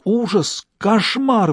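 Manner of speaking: high, breathless horrified gasps; exhaled in panic. A narrator's reading. Stas on the phone, blurting out his horror to the detective. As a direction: blurt the words out on a shocked breath. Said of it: "выдохнул он".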